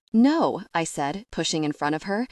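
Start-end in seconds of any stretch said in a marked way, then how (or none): 0.1-0.6 sharp loud no; urgent shout. Acted. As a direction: cry out to stop her. Narrator shouts to stop them.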